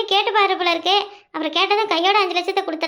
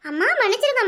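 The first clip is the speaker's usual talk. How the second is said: mock wailing plea; 4 semitones higher than usual. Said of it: "ஒரே ஓணும் ஒப்பாரினே".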